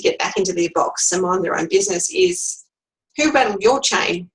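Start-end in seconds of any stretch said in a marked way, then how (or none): 3.2-4.3 smirking snappy comeback. Shown as a demonstration. Coach showing a snappy comeback that puts the bully back in their box. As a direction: toss it off with a smirk. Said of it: "said with a bit of a smirk".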